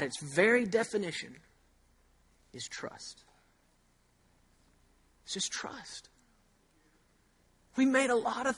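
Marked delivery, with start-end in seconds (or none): 2.5-6.1 breathy whisper on trust; hushed emphatic whisper. Real, not acted. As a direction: drop to a whisper to drive it home. Preacher drops voice for emphasis.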